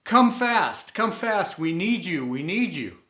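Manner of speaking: high, loud call that fades out; a boy shouting for help across camp, high and loud, then fading; retold scream for help. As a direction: yell for help, then let it die down.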